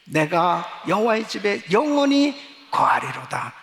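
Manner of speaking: loud, solemn psalm reading; scripture recitation. Acted. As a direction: proclaim each verse with full voice.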